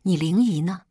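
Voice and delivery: restrained narrated roar; mildly barked, impatient question. A narrator's reading. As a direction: demand it with a touch of anger. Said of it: "只是吼道".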